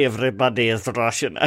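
imitated Russian line; Russian accent. Shown as a demonstration. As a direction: copy a hammy Russian accent. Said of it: "that was better than".

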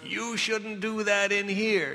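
slow, scolding church-lady tone; a prim disapproving church scold; lightly voiced churchy reproach. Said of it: "like, this particular churchy voice".

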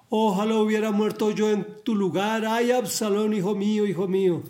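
lightly acted lament of a bereaved father; heartfelt lament. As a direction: mourn a son, high and steady. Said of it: "lo decía de todo corazón".

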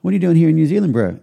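a friendly big Maori guy asking casually, bro; tattooist voice. Retold or imitated. Tattooist question repeated.

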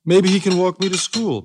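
put-on high eager child; little girl voice. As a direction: say it like a hopeful girl. Child Molly hopes.

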